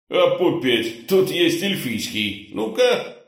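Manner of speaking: eager pleased boss. A narrator's reading.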